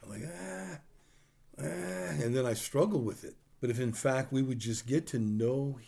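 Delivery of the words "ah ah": drawn-out, soft, higher-pitched groan; reluctant groan. Retold or imitated. Preacher admitting he sometimes won't help, mock reluctant groan. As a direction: imitate your own unwilling "ah". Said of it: "Sometimes I don't want to do that".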